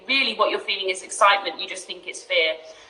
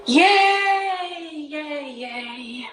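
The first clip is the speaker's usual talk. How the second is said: excited; 6 semitones higher, much slower than usual. Real, not acted. Celebrating it works.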